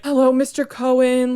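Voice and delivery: bright, high and loud, fake-friendly greeting; a salesman greeting the dad, sweetly polite; suddenly polite salesman. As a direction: switch instantly to sucking up to the dad. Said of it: "His tune immediately changed".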